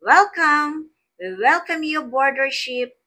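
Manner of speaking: high, loud, beaming welcome; smiling welcome. Shown as a demonstration. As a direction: greet them aboard with a big smile. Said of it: "imagine a crew member smiling and saying".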